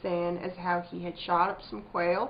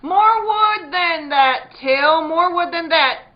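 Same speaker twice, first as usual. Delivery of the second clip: loud order; 8 semitones higher, 13 dB louder, slower than usual. Acted. Abby orders, voice strained loud.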